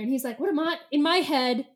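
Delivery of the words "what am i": lightly voiced English accent; English-accented retort. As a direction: say it with a touch of British English. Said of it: "he was English".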